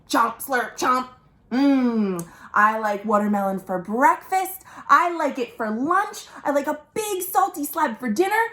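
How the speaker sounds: lightly voiced greedy croc, munching; crocodile voice. Croc boasting about his favorite food, lightly voiced and cheerful. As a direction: relish each food like a happy croc.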